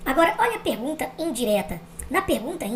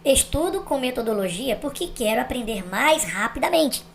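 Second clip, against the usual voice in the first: slow example reading. Shown as a demonstration. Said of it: "Agora, atenção".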